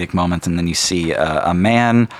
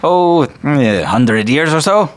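wistful dwarf; 7 semitones higher, 6 dB louder than usual. Acted. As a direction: draw it out thinking back. Dwarf recalls brother.

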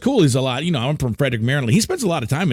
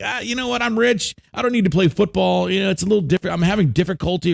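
lazy rich player; 3 semitones higher than usual. Retold or imitated. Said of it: "And he's like".

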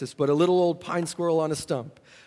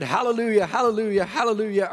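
high, loud retold shout of joy; shouting hallelujah; 6 semitones higher, 4 dB louder than usual. Preacher shouting praise alone on the mountain, loud and joyful. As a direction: cry it out as he runs round the tree. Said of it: "Just screaming at the top of my voice".

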